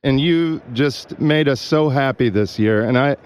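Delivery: thanking him through tears; touched. Real, not acted. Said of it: "Is this guy dying?".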